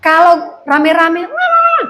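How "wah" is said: mimicked commotion. Imitates noise of a rowdy quarrel.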